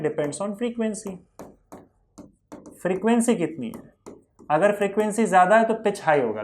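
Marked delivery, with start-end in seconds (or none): 0.0-1.2 very slow, spelled-out recitation; slow drilled answer. Shown as a demonstration. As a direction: stretch it out like a rote answer. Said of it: "pitch किस पे depend करता है?".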